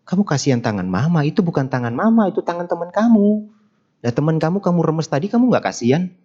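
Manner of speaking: high-pitched, mock-astonished challenge; incredulous questioning. Monk challenging a child who pities an imagined mother's hand, incredulous. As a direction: voice climbs high in disbelieving questions.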